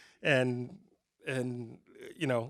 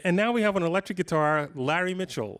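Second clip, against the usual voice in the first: lightly imitated host's patronizing introduction; slightly raised, talking-down host intro; introducing a five-year-old; 4 semitones higher than usual. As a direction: announce him as if he were a little kid. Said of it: "like I'm five".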